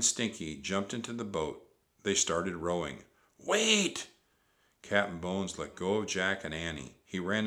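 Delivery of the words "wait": high, loud holler; high-pitched desperate yell; urgent call. A narrator's reading. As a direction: cry out after the boat. Captain calling after departing boat.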